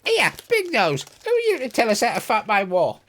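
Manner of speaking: high-pitched, indignant commander voice; high, affronted officer character; cheeky army commander. Acted. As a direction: challenge them in a high, put-on voice.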